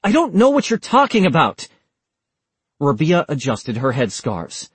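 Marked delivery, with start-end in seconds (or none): 0.0-1.7 high, loud bewildered denial; baffled and defensive; clueless protest. A narrator's reading. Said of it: "clearly clueless".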